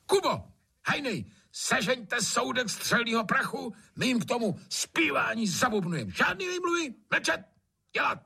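very high barking orders; bossy landlord. A narrator's reading. Trautenberg ordering servants for gunpowder, bossy. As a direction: command them like a tyrant.

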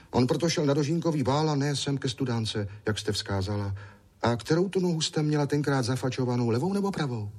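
put-on high, eager small boy's voice; little boy Ondroušek. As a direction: play a chatty little boy.

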